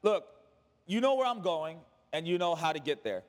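simple, settled statement, falling at the end; matter of fact. Acted. Jesus reassuring disciples they know the way, matter of fact. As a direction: say it as an obvious fact. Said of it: "He says it so matter of fact".

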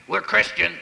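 sudden whoop, mocking the tense family; mock stiff piety. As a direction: send up the stuffy home with a silly high woo. Mocking uptight Christian household.

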